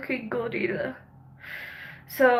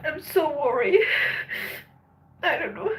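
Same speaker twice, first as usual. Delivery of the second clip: tearful; 3 semitones higher than usual. Real, not acted. Worried about violence, still tearful.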